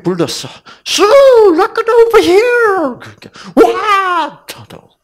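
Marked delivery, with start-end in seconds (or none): 0.9-3.0 high, loud shout across the deck; a child's sudden loud call. Retold or imitated. Older sister suddenly calls out. 3.6-4.5 high, loud surprised yelp; a sudden startled child's cry. Retold or imitated. Startled daughter answers her sister.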